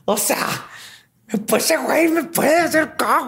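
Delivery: put-on high, panicky girly voice; ditzy girl voice. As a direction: play a girl suddenly realizing, high. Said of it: "Así que".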